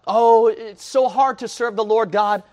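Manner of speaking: high, loud whining mock of a reluctant believer; mock whiny voice of a halfhearted Christian; mocking whiny complainer. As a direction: sneer out the lazy excuse. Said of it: "So what?".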